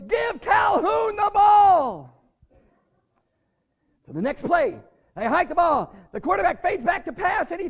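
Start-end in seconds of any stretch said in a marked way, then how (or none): 0.0-2.1 loud, high, drawn-out yell from the stands; shouting father. Retold or imitated. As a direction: call it slowly across the stadium. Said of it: "and he goes".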